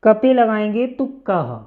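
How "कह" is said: कह said with an audible h after k; breathy h sound. Shown as a demonstration. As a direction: add a clear h puff to कह. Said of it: "यानी हा का sound आता है".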